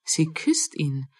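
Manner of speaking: a stunned murmur, drawn out; barely above a breath, slowly; slow, hushed repeat. Acted. Repeats it, slower and quieter.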